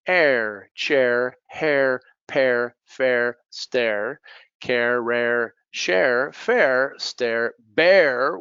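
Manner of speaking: each word drawn out on the "air" rhyme; deliberate one-word-at-a-time rhyme drill; shared air sound. Shown as a demonstration. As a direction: list word by word, "chair", "pear", "bear" rhyming with "air". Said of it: "have in common the sound air".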